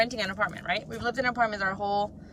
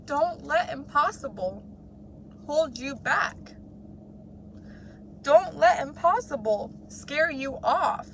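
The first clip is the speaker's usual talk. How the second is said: inspirational; 4 semitones higher, slower than usual. Real, not acted. Motivational climax, slow and raised.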